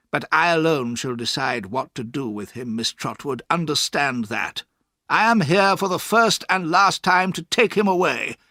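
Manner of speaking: lightly voiced cold stern man; stern stepfather. A narrator's reading. Stepfather tells the aunt the boy is wicked, cold. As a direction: condemn the boy coolly. Murdstone's ultimatum.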